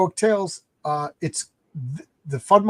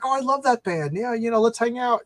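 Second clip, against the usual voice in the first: put-on girly Rebecca voice; 7 semitones higher than usual. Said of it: "she's like".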